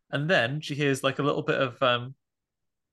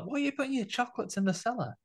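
high-pitched, softer baffled question; incredulous questioning; 10 semitones higher, 5 dB quieter than usual. Pretend. Podcaster questioning a film couple's hiding place, incredulous. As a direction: puzzle over it in a high voice. Mocking the old couple's odd choice.

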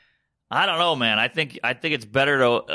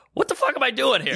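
laughing disbelief; 10 semitones higher than usual. Retold or imitated. Retold panic, laughing.

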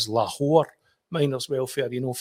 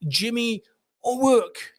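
repeating louder; 11 semitones higher, 4 dB louder, much slower than usual. Retold or imitated. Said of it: "He says".

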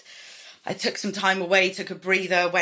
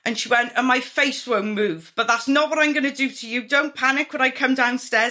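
higher, louder chatty Valleys woman; hammed-up breezy woman calling out; woman with the needles greeting her client; Botox woman voice; 7 semitones higher, 5 dB louder than usual. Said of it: "she's like".

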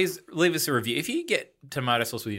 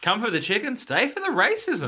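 slogan read; 6 semitones higher than usual. Acted. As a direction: sell it like a jingle tagline. Joke slogan delivery.

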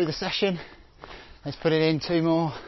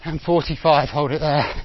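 barking gym coach; 2 semitones higher than usual. Real, not acted. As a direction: bark the count like a coach. Calling out sprint time.

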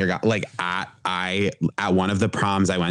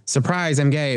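mock announcement; 7 semitones higher than usual.

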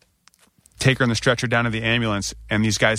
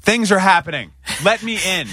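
frantic plea; 7 semitones higher than usual. Retold or imitated. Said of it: "I'm like".

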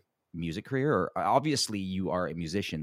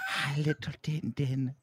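playful shout; 7 semitones higher than usual. Real, not acted. Shouting greeting at child.

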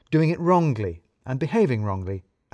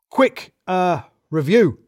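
higher, hurried boss voice, a bit awkward; manager Balls; 7 semitones higher, 8 dB louder, slower than usual. A narrator's reading. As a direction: voice the nervous manager. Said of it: "said Balls".

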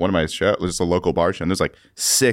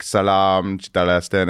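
put-on Afghan accent; 2 semitones lower, slower than usual. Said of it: "uh, Afghan accent?".

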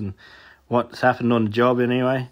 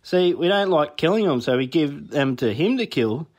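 matter-of-fact neighbour; 4 semitones higher than usual. Retold or imitated. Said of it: "And the neighbour said".

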